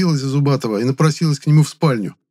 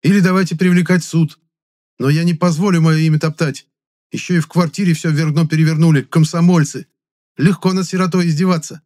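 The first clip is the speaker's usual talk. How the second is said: loud, raised indignant protest; indignant tirade; 7 semitones higher, 4 dB louder than usual. A narrator's reading. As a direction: defend your honour hotly.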